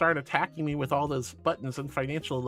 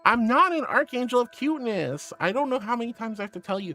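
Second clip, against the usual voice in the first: mock indignation; 6 semitones higher than usual. Mock indignant denial of being cute.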